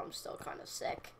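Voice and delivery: hushed, unvoiced aside about being sick; whispered aside. Real, not acted. Gamer whispering to viewers she's still sick. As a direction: drop to a whisper on the admission.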